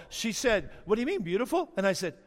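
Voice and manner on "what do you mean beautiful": higher-pitched, innocent question from his wife; imitating his wife's unoffended question; imitated without attitude. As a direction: quote her lightly, pitch lifted, no edge. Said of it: "She didn't say it like that at all".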